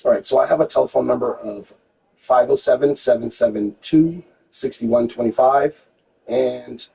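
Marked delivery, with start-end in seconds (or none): 2.2-5.9 slow, careful digit readback. Real, not acted. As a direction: spell out each digit slowly. Agent reads back phone number.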